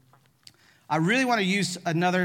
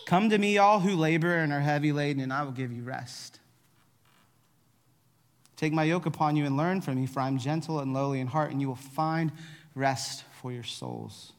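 measured verse reading, softening as it goes; gentle, solemn Bible reading; scripture reading; 3 semitones lower than usual. Acted. Reads scripture aloud to congregation.

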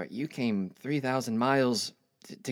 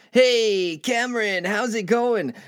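high, loud hail to a buddy; breezy, high-pitched greeting; friend's greeting; 8 semitones higher, 4 dB louder, slower than usual. Acted. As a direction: call out an upbeat hello, pitched well up.

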